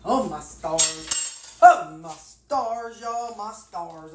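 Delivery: slow, stretched-out exasperated sigh of a phrase; long-suffering Southern exclamation; drawn-out oh my stars. Real, not acted. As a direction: drag out each word in mock dismay. Exasperated at forgotten dressing.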